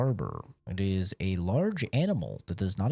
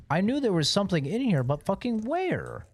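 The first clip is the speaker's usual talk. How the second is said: exasperated; 8 semitones higher than usual. Real, not acted. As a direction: drag out the final where. Frustrated searching.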